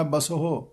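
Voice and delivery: ਬਸਹੁ as "ba-so-ho", the h heard; sounded h. Shown as a demonstration. Teacher repeating ਬਸਹੁ for students with the h sounded. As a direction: give the h in ਬਸਹੁ its own short syllable. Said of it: "ਉਸ ਦਾ ਸਹੀ ਉਚਾਰਨ ਕਰਨਾ ਹੈ".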